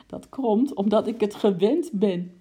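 hiccupping laugh. Acted. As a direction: hiccup through the words. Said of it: "hikte mevrouw Kwant".

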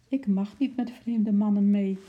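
put-on a small girl telling a stranger no; very decided. A narrator's reading. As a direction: refuse him flatly like a well-taught child. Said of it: "zei Marloes heel beslist".

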